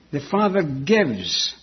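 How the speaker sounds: slow down and settle weightily on "gives"; emphasis on gives. Real, not acted. Preacher stressing the Father's giving, "gives" slow and emphasized. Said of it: "what I'm emphasizing here now".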